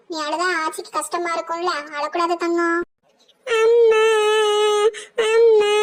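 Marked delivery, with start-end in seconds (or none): 3.5-5.7 put-on loud, high child's crying call for mother; child wailing. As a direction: wail for amma like a sobbing little boy. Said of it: "அழக்கூடாது, அழக்கூடாதுடா கண்ணா". (சத்தமாக அம்மாவை அழைத்து அழும் குழந்தை)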